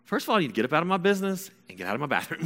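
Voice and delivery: fast, high telling-off; retold flustered teen sass; indignant. Son tells mom to leave his business and bathroom, indignant.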